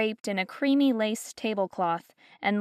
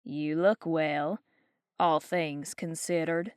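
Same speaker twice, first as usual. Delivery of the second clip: haughty Southern lady; 4 semitones lower, 4 dB quieter, slower than usual. Acted. Geraldine's backhanded compliment.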